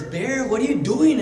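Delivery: high, loud, stretched-out greeting; little rabbit hailing a friend, high-pitched; rabbit character. Acted. Rabbit calls out to bear.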